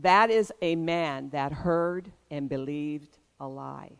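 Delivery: retold calm, measured answer, softly spoken. Father explaining a strange passerby to his son, calm. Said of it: "I very calmly said".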